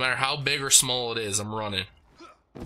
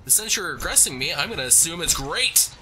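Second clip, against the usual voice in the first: salesman voice; 4 semitones higher, faster than usual. Pretend. Salesman bit to enemies.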